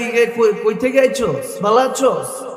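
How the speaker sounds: imitated Dhaka dialect greeting. Preacher showing how Bangladesh's dialects differ, imitated Dhaka dialect. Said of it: "ঢাকার ভাষা আলাদা".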